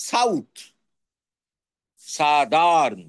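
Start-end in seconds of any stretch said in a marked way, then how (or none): 2.0-3.0 সাদার্ন said slowly, first vowel a as in "sa", no "ou" sound; slow clear pronunciation. Shown as a demonstration. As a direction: draw out সাদার্ন as "sa-darn", not "sau". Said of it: "উচ্চারণটা change হচ্ছে".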